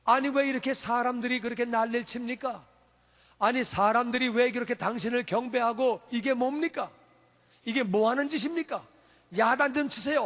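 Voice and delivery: lightly voiced indignant Pharisees; protesting Pharisees. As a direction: lodge an urgent complaint with the teacher, mildly acted. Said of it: "바리새인들이 말합니다". (살짝 흉내 낸 바리새인들의 항의)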